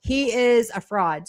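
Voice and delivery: loud, high mock shout easing down; hammed-up outraged accusation, first word belted; mock outraged state. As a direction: call it out like an indignant prosecutor. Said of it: "this is the state being like".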